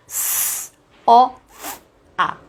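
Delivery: "S" hissed unvoiced, then "O, F, A" said as single sounds. Shown as a demonstration. Teacher modelling sofá for parents, sound by sound. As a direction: split "sofá" into its sounds, hissing the "S". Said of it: "a palavra sofá".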